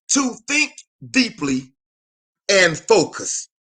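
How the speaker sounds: slow and weighty, think deeply and focus; slow emphasis. Shown as a demonstration. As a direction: lean on think. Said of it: "That word meditate means".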